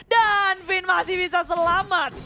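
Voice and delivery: excited shout. Real, not acted. Clutch escape call.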